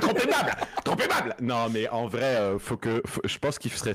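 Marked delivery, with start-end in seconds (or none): 0.0-1.3 much higher, mock-sweet sarcasm; sarcastic thanks. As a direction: thank them in a high, fake-sweet voice. Mock thanks for the last word. (remerciement sarcastique, voix haute et faussement mielleuse)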